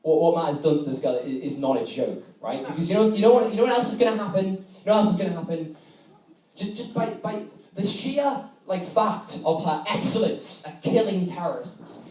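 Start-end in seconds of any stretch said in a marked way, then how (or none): 2.6-12.0 mock dramatic escalation. Harry's rant continues.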